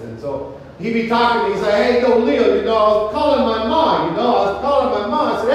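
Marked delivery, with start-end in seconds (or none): 1.7-5.4 imitated East Coast Italian-American buddy; East Coast Italian accent. Army buddy telling Leo about calling home, imitated East Coast Italian accent. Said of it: "he had that Eastern Italian accent".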